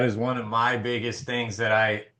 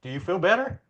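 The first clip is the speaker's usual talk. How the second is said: gentle, slightly higher question; calm concern; 5 semitones higher, 3 dB quieter, faster than usual. Retold or imitated. Husband asks wife after her outburst, calm concern. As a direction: check in kindly and calmly. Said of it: "a nice, calm, and concerning way".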